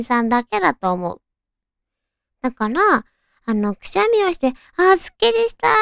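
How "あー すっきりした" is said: high, bright relieved exclamation; relieved sigh. Retold or imitated. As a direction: act out the relief after a sneeze. Acted relief after a sneeze.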